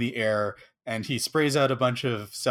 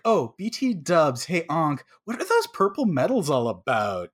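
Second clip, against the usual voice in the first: offhand by-the-way question; really casual; 3 semitones higher than usual. Retold or imitated. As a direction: toss it off as if it means nothing. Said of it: "really casually".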